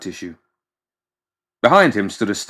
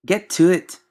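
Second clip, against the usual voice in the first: pompous doctor; 10 semitones higher than usual. Acted. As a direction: order the servant about from up high. McMorning's high bossy voice.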